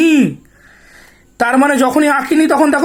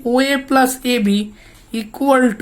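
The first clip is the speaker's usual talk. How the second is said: slow, careful dictation of OA plus AB; teacher dictating slowly, word by word; much slower than usual. Shown as a demonstration. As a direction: spell it out slowly for the class. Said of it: "এবার আস্তে আস্তে বলছি".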